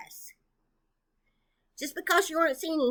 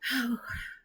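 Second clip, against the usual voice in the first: heavy breathless sigh; 6 dB quieter than usual. Real, not acted. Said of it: "I am so short of breath anymore".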